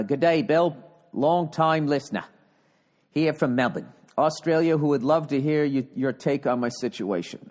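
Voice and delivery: put-on hammy Australian accent, reading a letter; Aussie accent. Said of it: "my bad Aussie, Aussie accent".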